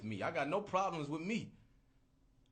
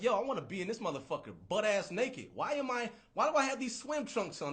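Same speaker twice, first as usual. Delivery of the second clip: high, loud, exasperated self at the beach; fed-up beach rant; 5 semitones higher, 3 dB louder than usual. Retold or imitated. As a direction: whine about the swim trunks, pitched up. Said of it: "I'm like".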